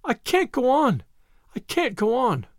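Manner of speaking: put-on a little girl weeping in the crowd, high and tearful. A narrator's reading. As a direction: sob it out, she's beaten.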